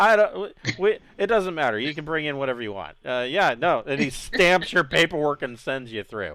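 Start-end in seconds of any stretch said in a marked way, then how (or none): 0.0-3.0 fast, laughing, joking, teasing tone. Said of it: "then he kinda laughs and goes".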